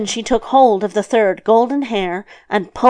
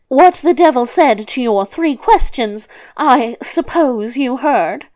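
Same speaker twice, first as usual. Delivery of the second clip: higher, louder, emphatic delivery; lightly voiced grandmother; 3 semitones higher, 4 dB louder than usual. Old woman handing hairs to the luck child, lightly voiced. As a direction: present it in a raised character voice.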